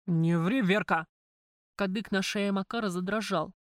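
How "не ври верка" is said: громкий резкий окрик, на имени «Верка» вниз; рявкни «Не ври, Верка!» с нажимом. Acted. Макар уличает её во лжи. (Макар громко обрывает ложь Верки)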